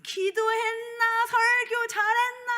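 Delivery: high, slow imitation of her father; father's voice. Pastor mimicking her father questioning her at dinner. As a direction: stretch out a nagging father's questions. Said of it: "하 목사 앉아봐라." 이러더니".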